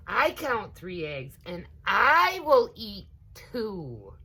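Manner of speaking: slow, loud boastful claim; cocky little alligator; greedy little gator. A narrator's reading. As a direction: brag like a greedy child. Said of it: "Quickfoot said".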